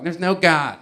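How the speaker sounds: lightly mocked atheist pronouncement; mocking atheist. Comic imitates how atheists talk, lightly mocking. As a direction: declare it like a know-it-all atheist, lightly mocked. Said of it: "that's how they talk".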